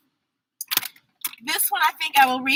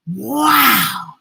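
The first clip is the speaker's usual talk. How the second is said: much higher, fast surprised praise; mock amazement; 4 semitones higher than usual. Reading the book praising the child, playful amazed. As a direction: gush in playful wonder.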